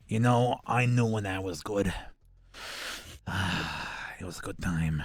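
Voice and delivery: lightly voiced Long Island barfly; smoker Brooklyn woman. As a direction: reminisce with a sigh like a heavy smoker at the bar. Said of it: "this woman who just smokes a few too many packs".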